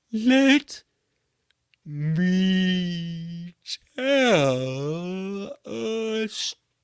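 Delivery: the sloth offering to tell the cat a story; slow sloth. Acted. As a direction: stretch each word out like a sloth. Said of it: "is what he was trying to say".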